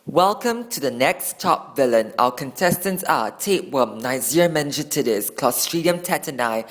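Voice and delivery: slow, loud announcer voice; game show host. Acted. Game show host introduces contestants.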